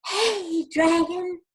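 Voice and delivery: high, loud shout to copy; a high demo shout. Shown as a demonstration. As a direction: shout it up for the kids. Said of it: "Can you shout like that".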